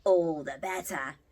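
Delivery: loud, slow growled threat; wolf's shout. Acted. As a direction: roar it as the pouncing wolf. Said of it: "shouted the wolf".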